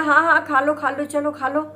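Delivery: hammed-up go on, eat; playful shouted invitation; teasing loud urging.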